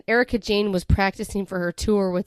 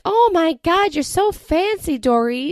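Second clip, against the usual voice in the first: much higher, gushing country bumpkin; 9 semitones higher, 5 dB louder, slower than usual. Retold or imitated. Denise greeting Dorit as a starstruck country bumpkin, high and gushing. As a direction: gush like a starstruck yokel. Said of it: "plays it up like she's some country bumpkin".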